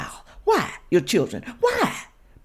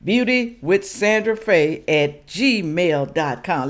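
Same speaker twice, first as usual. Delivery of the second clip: Beauty with Sandra Faye at gmail dot com spelled out slowly, word by word; slow dictation; slower than usual. Shown as a demonstration. Repeating her email for viewers to copy, slow and deliberate. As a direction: dictate the address slowly so they can write it.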